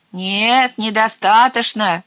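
loud, high protest; yelling. A narrator's reading. Aunt Rumpumpel disputing the verdict, yelling. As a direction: object with a drawn-out shout. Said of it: "заорал тётка Румпумпель".

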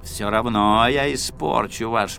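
a hint of a creaky old grumbler; creaky grumbling voice. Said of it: "скрипучим голосом".

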